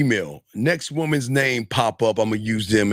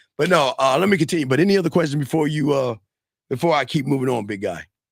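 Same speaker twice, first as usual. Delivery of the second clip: normal talking voice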